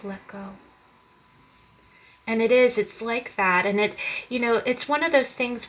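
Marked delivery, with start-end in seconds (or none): 0.0-0.5 a soft, much quieter retelling of her whisper; retold whisper. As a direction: drop almost to a whisper for the quote. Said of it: "she whispers in his ear".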